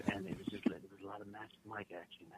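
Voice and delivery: whispered celebrity aside. Pretend.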